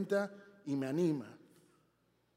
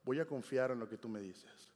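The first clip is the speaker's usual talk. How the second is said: quiet retold prayer; 4 semitones lower, 5 dB quieter than usual. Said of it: "Yo decía".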